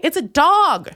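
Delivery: usual speaking voice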